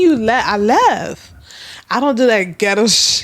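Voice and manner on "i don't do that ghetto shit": quoting her while cracking up with laughter; laughing. Real, not acted. Retelling her line to viewers, laughing hard. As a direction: laugh through the words. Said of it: "I'm laughing so hard".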